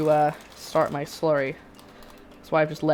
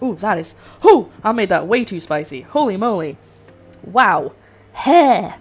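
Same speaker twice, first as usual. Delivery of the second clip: spicy shock; 2 semitones higher, 9 dB louder than usual. Real, not acted. Reacting to too-spicy sauce.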